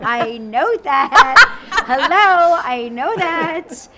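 loud, slow, laughing I know that; hammed-up indignant yell with a laugh; mock exasperated shout. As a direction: bellow it back in mock outrage. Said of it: "And I'm like".

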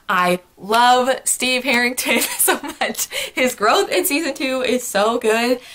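slow, giggling adoration; laughing gush. Real, not acted. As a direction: melt into a laugh over him. Gushing over favourite character.

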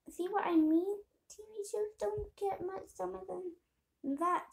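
high-pitched, holding back a laugh; trying to keep reading after cracking up; amused, fighting laughter. Real, not acted. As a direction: read it through suppressed giggles. Reader laughs, rereads the line.

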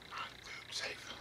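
a hushed, slow repeat of the warning; whispered warning. Shown as a demonstration. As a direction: whisper it slowly.

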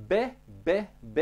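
"B" as "be" with pressure on the lips; separate, pressed "B" syllables. Shown as a demonstration. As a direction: press the lips, then release each "B". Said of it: "există și o presiune".

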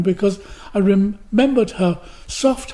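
usual speaking voice

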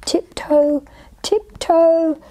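high, light creeping chant; stealthy tiptoeing. A narrator's reading. Little tiger sneaking up to scare, stealthy. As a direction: place each word daintily, as if sneaking. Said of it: "he crept silently".

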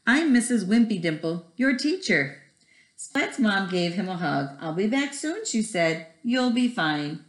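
put-on lively storybook read-aloud to kids; reading to children. Teacher reading Splat the Cat to her first graders, animated. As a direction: tell it like bedtime for a first grade class. Reads picture book to class.

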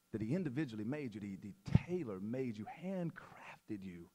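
soft, low, heartfelt; earnest quiet preaching. Real, not acted. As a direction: bring the voice down and mean every word.

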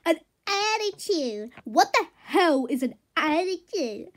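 offended disbelief; indignant. Acted. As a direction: throw the word back, affronted. Horse offended at being criticised.

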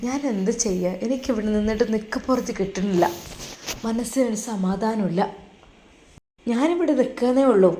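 a mother close to tears on the phone; mother tells her son tearfully she misses her daughter. Acted. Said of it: "ഉമ്മ പൊട്ടിക്കരഞ്ഞു".

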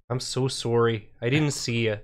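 lightly put-on Canadian apology; a hint of Canadian driver; Canadian accent. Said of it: "like, a thick Canadian accent".

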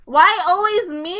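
loud, high wail; whining protest. Real, not acted. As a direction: wail about being singled out. Keeps being targeted.

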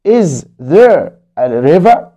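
Is there a river read very slowly, rising; slow story reading. Acted. Teacher reading Hani's question slowly to kids. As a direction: ask it slowly for young learners.

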